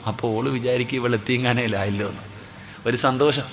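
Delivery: normal talking voice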